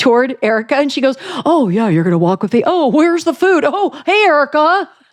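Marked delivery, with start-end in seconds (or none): 1.5-4.8 put-on awkward chatter, higher pitched. Retelling a woman walking over to greet someone, imitating awkward fake chatter. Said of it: "She tried to make fake conversation".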